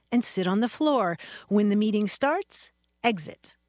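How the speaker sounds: measured mock oratory; mock pompous speech. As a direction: deliver nonsense as a solemn public announcement. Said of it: "this sort of pseudo-sophisticated speech".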